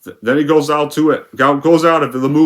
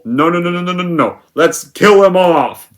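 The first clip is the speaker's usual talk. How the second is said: mocking objection; 4 semitones higher, 3 dB louder than usual. Critic mocking the filmmakers' choice to drop the lead, sarcastic. Mocks the filmmakers' casting decision.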